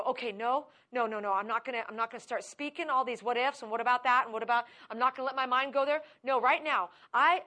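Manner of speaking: loud, determined no to fear; firm refusal. Retold or imitated. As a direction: push back hard against the panic. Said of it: "and you go".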